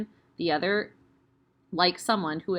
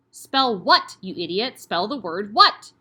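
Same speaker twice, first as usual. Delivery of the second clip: a loud sudden bark; barked demand; 7 dB louder, slower than usual. Acted. Headmistress barks a spelling test at Eric. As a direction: snap the question out.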